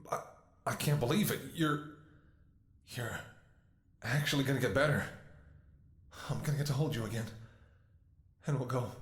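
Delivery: can barely believe it's working; overjoyed disbelief. Acted. Sees color returning to partner.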